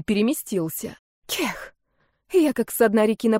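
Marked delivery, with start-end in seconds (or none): 1.3-1.7 choking gasp for air; gasping cough. Acted. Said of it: "жадно глотала воздух".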